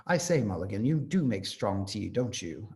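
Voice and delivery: lightly put-on English gentleman accent; a hint of an upper-class British accent, teasing; mild imitation of a genteel British accent; posh British. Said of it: "Haynes is very British".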